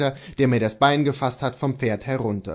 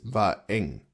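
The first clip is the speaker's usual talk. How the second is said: lower, softer admission; dropped voice; 5 semitones lower, 5 dB quieter than usual. A narrator's reading. Servant admits it to his master, voice dropped. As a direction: let the voice fall away. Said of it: "indem er die Stimme fallen ließ".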